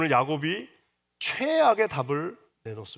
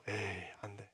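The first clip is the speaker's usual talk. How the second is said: much softer, lower, sneering; contemptuous dismissal; 7 semitones lower, 16 dB quieter than usual. Acted. Someone belittling a person, soft contemptuous muttering. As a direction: mutter it with quiet scorn. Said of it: "이런 거 있잖아요".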